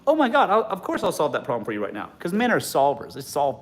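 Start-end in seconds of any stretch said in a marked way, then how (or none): 0.1-2.1 put-on eager boyfriend. Boyfriend solving problem.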